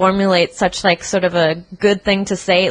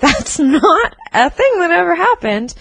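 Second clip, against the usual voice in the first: laughing; 9 semitones higher than usual. Retold or imitated. Laughing retort to scammer.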